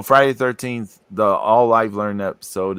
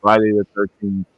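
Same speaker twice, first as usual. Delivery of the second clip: garbled, bubbly bad connection; underwater; 2 semitones lower than usual. Real, not acted. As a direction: sound like you're underwater. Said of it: "not sound like you're underwater".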